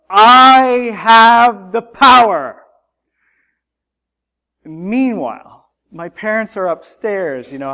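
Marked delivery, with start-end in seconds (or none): 0.1-2.6 long, high, full-force bellow; roaring, drawn-out battle cry; battle cry shout. Retold or imitated. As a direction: shout it out like a cartoon hero. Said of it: "shouted out at the top of my lungs the battle cry".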